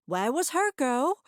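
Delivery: where is she, then?; indignant question. Acted. Mrs Ladner demanding her promised girl, loud and indignant.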